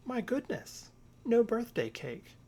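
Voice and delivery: high, startled exclamation; dismayed surprise. Acted. Little Bear discovering there is no birthday cake, high and dismayed. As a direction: gasp it out as the bad news lands.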